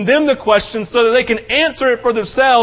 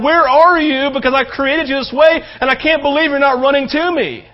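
crying out; 3 semitones higher than usual. Acted. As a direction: call out to the lost, pleading. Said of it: "And He's crying out".

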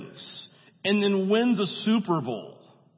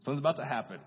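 knowing husband, quiet; 5 semitones lower, 8 dB quieter than usual. Retold or imitated. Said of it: "Sean says".

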